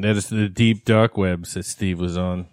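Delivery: low, slow announcer voice; radio voice. Pretend. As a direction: deepen it like a DJ. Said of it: "let me use my radio voice here".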